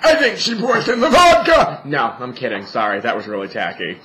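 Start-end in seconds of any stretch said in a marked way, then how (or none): 0.1-1.8 laughing joke. Real, not acted. Joking about mother poisoning her.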